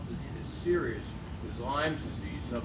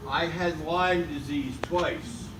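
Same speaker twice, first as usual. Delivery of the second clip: slow, projected to the whole room; loud; 2 semitones higher, 4 dB louder, much slower than usual. Real, not acted. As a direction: speak up for the back row, slowly. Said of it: "Talk loud so they can hear you".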